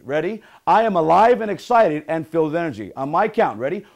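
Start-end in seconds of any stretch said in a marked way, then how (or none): 0.7-2.9 punchy affirmation, said louder; motivational affirmation. Shown as a demonstration. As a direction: lead the group in a rousing line. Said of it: "I want you to say".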